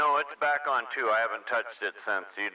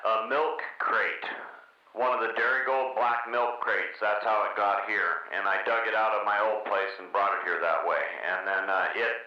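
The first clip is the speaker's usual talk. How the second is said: hollow pipe echo on the voice; like talking down a metal pipe; through a tube; 2 semitones lower than usual. Real, not acted. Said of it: "It sounds like you're talking through a pipe".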